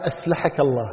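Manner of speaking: أسلحك with a plain S instead of the emphatic Ṣ; mocking mispronunciation. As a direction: repeat أسلحك with a thin S, teasingly. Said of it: "أسلحك يعني".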